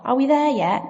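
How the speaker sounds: put-on high, pleading child voice; mock child whining; whiny kids in a car. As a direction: whine like a bored kid in the back seat. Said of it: "the cry of children in a car".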